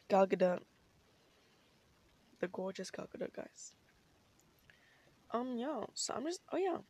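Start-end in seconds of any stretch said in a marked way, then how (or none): 0.1-3.7 sighed, whispered swoon; dreamy whisper. Real, not acted. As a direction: breathe the name lovingly. Sighing swoon over an actress.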